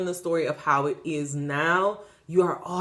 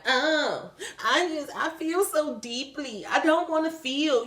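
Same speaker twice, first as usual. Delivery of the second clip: mock whiny self-pity; 7 semitones higher than usual. Mocking someone who won't feel.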